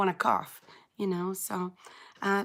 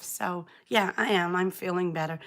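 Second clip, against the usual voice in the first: croaky voice. Real, not acted. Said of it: "put up with this croaky old voice".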